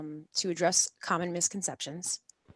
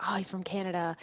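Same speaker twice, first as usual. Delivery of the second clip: mock doubtful viewer; 6 dB quieter than usual. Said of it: "people would be like".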